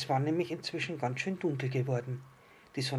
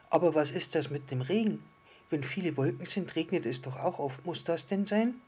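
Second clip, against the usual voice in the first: lightly voiced little star, a bit higher; questioning little star; 4 semitones higher, 3 dB louder than usual. Little star queries the island fish about rain, lightly higher and doubting. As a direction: question it like a small storybook character.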